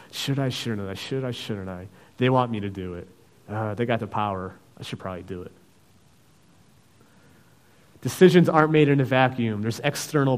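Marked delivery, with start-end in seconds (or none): 0.1-5.5 inner debate. Acted. Preacher voices Judas' inner struggle.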